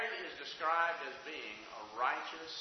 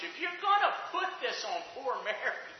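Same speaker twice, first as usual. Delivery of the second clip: quoting a doubter; 13 dB louder than usual. Retold or imitated. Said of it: "I've heard people even suggest".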